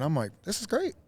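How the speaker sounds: normal talking voice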